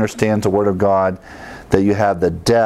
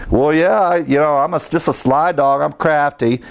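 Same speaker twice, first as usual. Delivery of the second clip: sarcastic; 5 semitones higher than usual. Retold or imitated. Paul mockingly agrees with his accusers, sarcastic. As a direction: shrug it off with a sly grin. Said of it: "Paul's kind of sarcastically saying".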